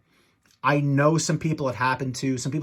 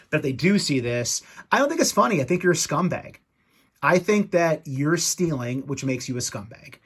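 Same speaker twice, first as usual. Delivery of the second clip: angry rant; 2 semitones higher than usual. Real, not acted. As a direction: pitch jumps up, scolding. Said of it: "Right now, I'm just very ticked off".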